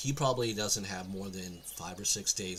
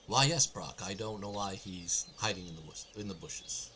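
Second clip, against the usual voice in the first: kind. Acted. Game master voices a figure answering Brock, kind. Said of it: "more or less in a kind voice".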